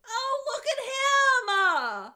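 put-on high, loud startled old-man cry. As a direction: shout it out in sudden alarm.

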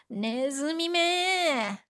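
slow, spat-out "Nezumi me"; angry curse. Shown as a demonstration. Cursing the mouse that ate your cake, slow angry spit. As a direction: curse the mouse slowly, drawn out. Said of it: "that's when you say".

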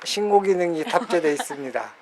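flat robotic monotone. Acted. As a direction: speak like a machine. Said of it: "로봇처럼 말하지 마요". (로봇 목소리)

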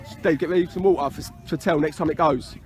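off-the-pitch murmur; quiet aside. Real, not acted. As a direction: say it low to someone beside you. Low aside to helper beside him.

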